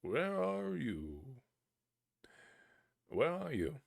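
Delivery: high, slow searching call. Acted. Boy calling to a hidden voice, high and slow. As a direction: call out into the forest. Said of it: "so he cried".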